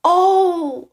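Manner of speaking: high loud gasp of discovery; surprised oh. A narrator's reading. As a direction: Toad suddenly finds his button. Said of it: "said Toad".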